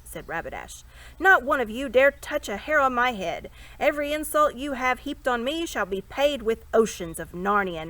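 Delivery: loud, rising doom-laden threats; menacing threats. A narrator's reading. Captive prince threatens the whole court with vengeance. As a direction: thunder out a curse.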